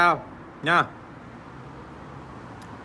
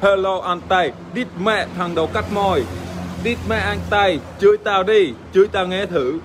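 slightly higher mock-fan voice; imitating pestering fans; 3 semitones higher than usual. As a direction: lightly mimic viewers begging to be cussed out. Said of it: "Một ngày có một nghìn message. Hỏi là". (giả giọng fan vòi vĩnh)

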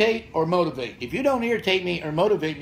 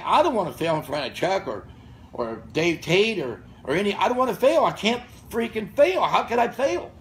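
rising higher, pushing himself not to fail; fired-up inner voice; 4 semitones higher than usual. Retold or imitated. Old lifter recalls his thoughts before a lift, fired-up and climbing. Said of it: "I'm thinking".

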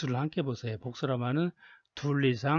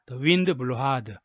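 the wind blew hard, said very slowly and a bit louder, each word drawn out; slow model reading; 5 dB louder, much slower than usual. Shown as a demonstration. Teacher models the example sentence slowly for students to repeat. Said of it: "예문 다시 한번".

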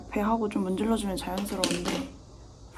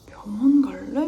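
mom's worried question; 6 dB louder, slower than usual. Retold or imitated. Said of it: "이래서".

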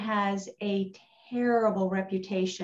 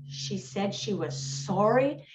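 retold disbelief; 2 semitones lower than usual. Friends' disbelief at the apology.

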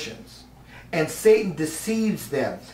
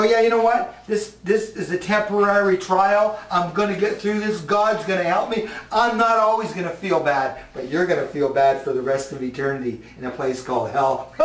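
defiant taunt. Shown as a demonstration.

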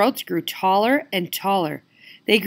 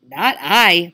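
muttering dog; 7 dB louder than usual. Acted. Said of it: "muttered the dog".

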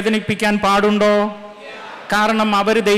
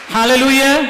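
hallelujah call; 4 semitones higher, 5 dB louder, slower than usual. Real, not acted. Preacher calls hallelujah to crowd.

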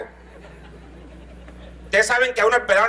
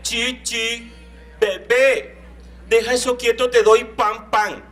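higher, doting voice of a Bogotá mom; mock Bogotá mother; 4 semitones higher, much slower than usual. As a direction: coo at the little boy like a fussy city mother. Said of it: "la cachaca decía".

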